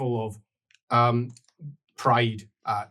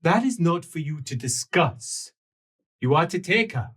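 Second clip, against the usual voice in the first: higher voice calling from the side; raised-pitch elf command; 5 semitones higher than usual. Acted. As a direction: call out a firm instruction. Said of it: "a voice from the side call out".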